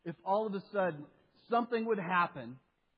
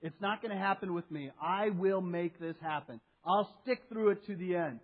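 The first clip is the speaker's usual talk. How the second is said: overconfident spiritual type. Retold or imitated. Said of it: "the overconfident spiritual type that says".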